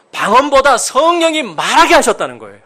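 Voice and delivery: normal talking voice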